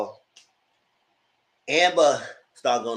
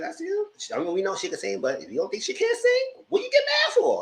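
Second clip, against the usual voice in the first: retold retort; 14 semitones higher than usual.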